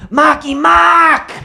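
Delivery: slow, drawn-out Boston call; mock Boston girlfriend hollering the name; calling out to a rapper. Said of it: "is like".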